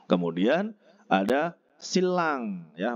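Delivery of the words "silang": "silang" said slowly as sil-lang; nien read as riel. Shown as a demonstration. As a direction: hold the L in the middle of "silang". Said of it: "bacanya gitu ya".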